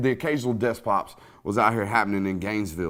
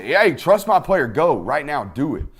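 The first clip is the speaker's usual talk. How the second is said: excited urging; 4 semitones higher, 7 dB louder than usual. Retold or imitated. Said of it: "he trusts it".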